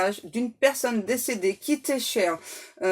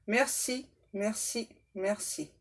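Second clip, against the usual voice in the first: soft thanks; 7 dB quieter, slower than usual. Acted. Prayer thanks.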